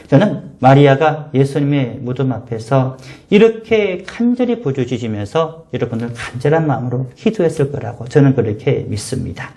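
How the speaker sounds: normal talking voice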